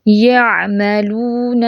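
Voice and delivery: "یعملون" recited very slowly on a level tone, "oo" held; measured recitation of "یعملون", stretching the waw; waw elongation. Shown as a demonstration. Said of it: "تو یہ مد بالواو کہلائے گا". ("یعملون" ٹھہر کر، واو کو کھینچ کر)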